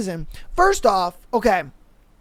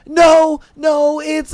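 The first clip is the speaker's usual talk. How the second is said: mock protest; 5 semitones higher, 6 dB louder, much slower than usual. Mocking homeboy protest.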